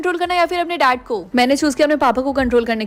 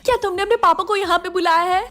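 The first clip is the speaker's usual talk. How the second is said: higher-pitched startled question; surprised disbelief; 4 semitones higher than usual. Acted. Mother asks whether daughter called father here, surprised. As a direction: ask in mild alarmed surprise. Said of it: "अब इतनी surprise क्यों है".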